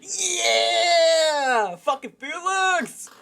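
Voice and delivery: loud, high screamed yell; screaming at Felix in fury; wild shout. Acted. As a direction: bellow it out with full force.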